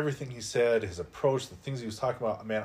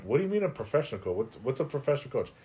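baffled; 4 semitones higher, faster than usual. Retold or imitated. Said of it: "and I'm like".

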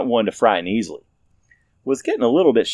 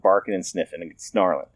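ordinary delivery, nothing marked

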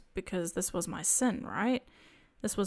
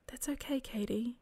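soft, whispered reassurance; calm and gentle; 2 semitones higher, 4 dB quieter than usual. Retold or imitated. Jesus calmly comforting Katie, in a soft whisper. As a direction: hush her worries tenderly. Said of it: "so calmly said".

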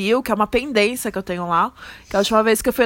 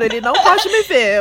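giggling through the words; laughing; 3 semitones higher, 5 dB louder than usual. Retold or imitated. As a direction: laugh while saying it.

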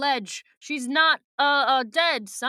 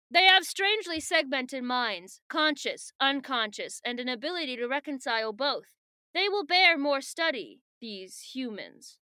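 strange otherworldly voice; 3 semitones higher than usual. Acted. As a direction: pitch it up like a detached being studying humans. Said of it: "It's a strange voice, old and young".

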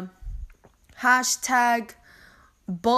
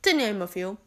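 whisper; faster than usual. Acted. Whispered aside after list.

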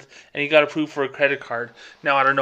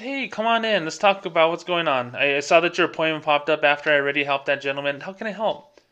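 bright sales greeting; 3 semitones higher than usual. Retold or imitated. Greeting the waiting rich customer.

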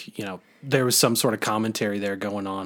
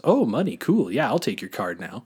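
bribed secretary. Retold or imitated. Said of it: "the guy goes".

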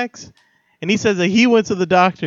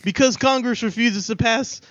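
slow, pompous, then cracking up; mock robber speech; 6 semitones higher than usual. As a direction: deliver it like a solemn political statement. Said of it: "I take out my gun and I say".

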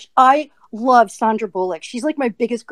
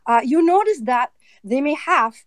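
lightly rolled-out German-accented English. Shown as a demonstration. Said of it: "when I switch to German now".

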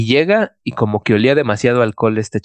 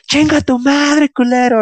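put-on higher, louder, slow drunken yell at taxis; drunk cursing; 14 semitones higher, 4 dB louder, slower than usual. Drunk date yells curses at the passing full taxis. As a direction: curse the taxi out at full throat.

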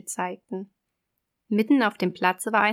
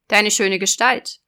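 loud, raised sea witch; 7 dB louder than usual. Acted. Witch voice in fairy tale.

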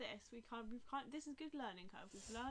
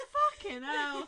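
exasperated aside; 4 semitones higher, 15 dB louder, much slower than usual. Retold or imitated. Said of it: "I was like".

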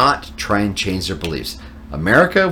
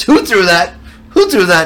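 raised, loud questioning of a crowd; stern official's demand; 10 semitones higher, 6 dB louder than usual. Retold or imitated. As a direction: demand it twice, mock indignant. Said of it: "And he goes".

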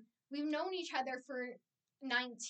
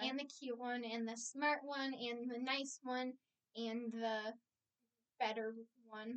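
far from the mic. Real, not acted. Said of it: "you're too far away from the microphone".

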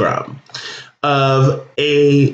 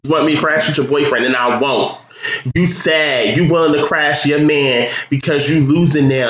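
a rough put-on Philly accent. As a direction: fake Philly accent, fast. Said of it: "come up with a fake Philly accent".

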